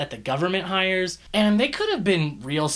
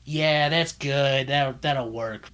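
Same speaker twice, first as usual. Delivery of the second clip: lazy approval; slower than usual. Retold or imitated. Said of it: "whoever signed off on it was just".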